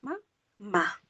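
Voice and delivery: "Ma, ma" split, first short and lifted, second falling; syllable stress test. Shown as a demonstration. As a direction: set the two syllables of "Ma, ma" apart to compare them. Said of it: "esta suena más fuerte".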